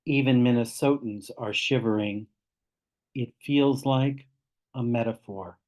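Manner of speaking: spare, measured poetry reading; poem recitation. Acted. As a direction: leave long pauses between short images. Reads own poem aloud.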